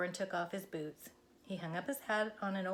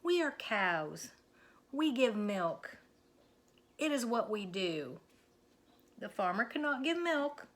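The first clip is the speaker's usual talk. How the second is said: patient Minnie. Acted. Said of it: "she said".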